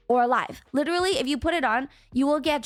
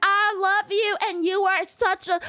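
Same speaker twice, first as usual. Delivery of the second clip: a touch of a tearful testimony, higher; emotional singer impression; 5 semitones higher than usual. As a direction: gush thanks to God like a moved singer. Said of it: "And he's like".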